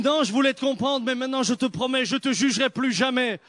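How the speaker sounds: half-laughing, hurried promise; a touch of laughter in the retold reply. His own reply retold, laughing.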